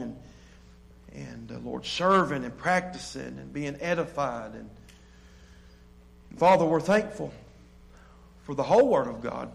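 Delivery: earnest, measured prayer voice; closing prayer. Acted. Pastor praying for his congregation, earnest prayer voice. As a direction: pray over the people, unhurried.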